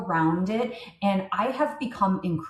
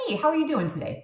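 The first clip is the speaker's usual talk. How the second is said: cheerful phone greeting; 7 semitones higher, faster than usual. Shown as a demonstration. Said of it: "I'm like".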